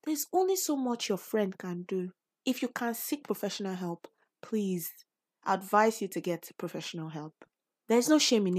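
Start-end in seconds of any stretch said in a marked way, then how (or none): 2.4-4.9 soft whispered urging; whispered advice. Real, not acted. Podcaster urging a struggling listener to seek help, whispered. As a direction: lean in and whisper it like a secret tip.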